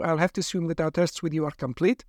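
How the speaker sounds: hint of a persuasive lab doctor. Doctor threatens silent captive.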